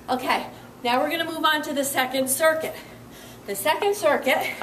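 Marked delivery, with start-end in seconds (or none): 3.5-4.5 panting between words; winded after the exercise; out of breath. Real, not acted. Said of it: "I'm out of breath here".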